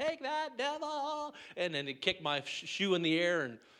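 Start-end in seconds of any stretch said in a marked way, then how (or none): 0.0-1.3 mock very high, yelled-out cry. Describing what they yell out at the enemy: retelling a yell. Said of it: "And I'll just yell out".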